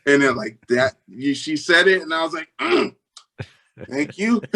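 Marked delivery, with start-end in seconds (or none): 2.6-4.4 imitated tight, high-pitched thanks; choked up. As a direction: squeeze out thanks, holding back tears. Holding back tears at praise.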